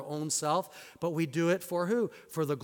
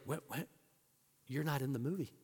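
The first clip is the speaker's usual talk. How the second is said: hushed cinema whisper; 3 semitones lower, 11 dB quieter, faster than usual. Retold or imitated. Friend mid-movie, hushed.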